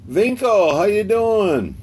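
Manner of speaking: loud happy shout-out; excited greeting. Real, not acted. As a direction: greet a friend who just showed up. Greeting viewer by name.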